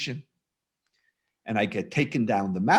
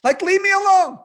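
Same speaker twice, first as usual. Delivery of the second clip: much higher and louder, fed-up outburst; exasperated mock shout; 7 dB louder than usual. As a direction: blow up in mock frustration. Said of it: "And then I'm saying, like".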